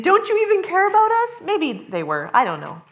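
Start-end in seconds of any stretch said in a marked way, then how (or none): 0.0-1.4 high, loud, fast pleading; frantic plea. Retold or imitated. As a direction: rush it out in panic. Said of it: "I don't think they were saying".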